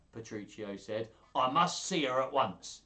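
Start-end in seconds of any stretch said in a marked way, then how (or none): 1.3-2.8 raised, louder attempt at a Paduan accent; put-on Paduan, speaking up; mock Paduan accent. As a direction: have a go at a Paduan wheeler dealer. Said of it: "in the best Paduan, uh, accent".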